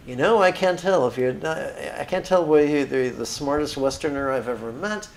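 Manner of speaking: lightly put-on Jewish accent. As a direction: quote him in a mild Jewish accent. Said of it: "take liberties 'cause he didn't speak with a Jewish accent".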